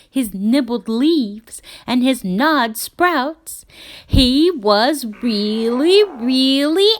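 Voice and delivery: building anger. A narrator's reading. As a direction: let the anger swell to a peak.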